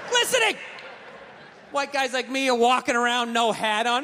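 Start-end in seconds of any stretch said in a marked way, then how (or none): 0.1-0.6 high, delighted exclamation; exclaiming. Acted. Comic describing oiled skin, high excited exclamation. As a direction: squeal the word with glee.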